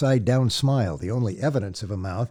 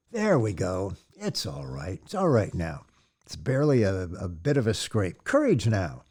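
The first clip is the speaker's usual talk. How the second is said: gentle reassurance; 2 semitones lower than usual. Acted. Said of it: "It came as a gentle sound".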